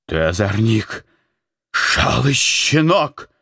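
high, slow furious yell; angry yelling. A narrator's reading. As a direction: bellow at the novice through the door. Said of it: "начал Антоний орать". (ругает послушника криком)

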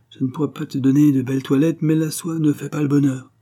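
high-pitched, breezy bravado; forced gaiety. A narrator's reading. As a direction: play at being carefree, voice lifted. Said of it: "sa gaieté forcée prenait des airs de bravade". (gaieté forcée, air de bravade)

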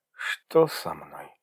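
slow, weak moan; a tired, slow moan of confusion. Acted. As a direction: groan it out slowly. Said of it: "застонала девушка".

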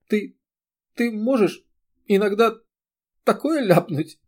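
high, broken, giggly question; a teary, halting giggle; giggling through tears. A narrator's reading. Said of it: "начала хихикать сквозь слёзы".

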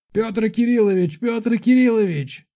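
high, urgent calling out; almost shouting. A narrator's reading. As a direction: call the count's name in alarm. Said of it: "почти кричал охранник".

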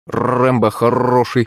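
slow parrot voice with long rolled r; clucking parrot. A narrator's reading. Parrot praising himself, clucking. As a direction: croon it like a talking pet bird. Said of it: "заквохтал питомец".

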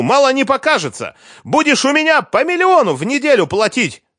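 very high, loud vengeful threats; screaming threats. A narrator's reading. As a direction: scream every threat at him, pitch soaring. Liza threatens ex-husband, shouting.

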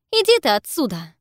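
loud angry shout. A narrator's reading. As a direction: yell them away. Gemma drives centaurs off.

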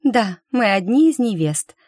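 high, lofty regal voice. Acted. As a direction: say it like a queen. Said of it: "царственно кивнула Изабелла".

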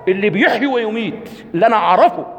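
mock the proud king; a hint of a boastful king. Preacher mocking Nimrod's boast, high and proud. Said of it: "قالوا".

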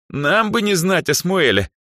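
put-on haughty scornful girl; contemptuous snort. A narrator's reading. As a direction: scoff at the very idea. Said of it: "презрительно фыркнула Даяна".

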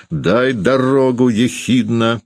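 high, drawn-out frenzied cry; frenzied roar. A narrator's reading. Landlady forcing her way to the door, frenzied cry. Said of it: "Она неистово взревела".

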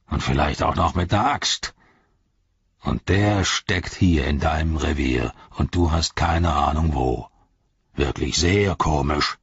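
lightly voiced orc captain, sardonic; warning orc. Voices Gorbak warning Shagrat.

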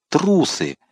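high, ringing insults flung out; angry outcry. A narrator's reading. Winter cursing his deserting soldiers, crying out angrily. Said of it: "слышался голос Винтера".

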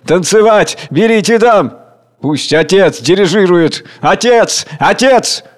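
high, loud chanting; eager calls. Acted. Crowd cheering for the father to lead. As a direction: coax him in.

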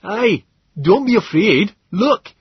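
lightly voiced friendly Stubbins, high and slow; calm the crowd with a cheerful call; gentler familiar voice. A narrator's reading. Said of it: "another voice, gentler and more familiar".

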